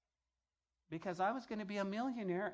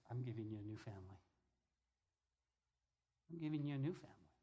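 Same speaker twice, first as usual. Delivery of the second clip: voice of God; 7 semitones lower, 8 dB quieter, faster than usual. Retold or imitated. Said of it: "and God says".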